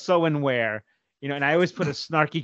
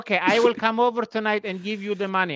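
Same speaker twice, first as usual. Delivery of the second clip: higher put-on mother voice; imitating mom; 8 semitones higher than usual. Mother offering to bring money over, imitated higher. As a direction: offer it like his eager mom. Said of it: "mother's offer".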